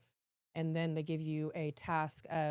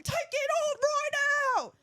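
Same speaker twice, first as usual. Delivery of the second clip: put-on British accent yell; 8 dB louder than usual. Staff officer repeating his order, screamed British accent. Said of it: "that's my British accent".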